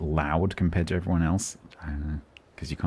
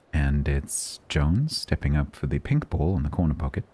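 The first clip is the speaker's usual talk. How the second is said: snooker commentator. Acted. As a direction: call the shot like a calm snooker commentator. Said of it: "I sounded like a snooker commentator".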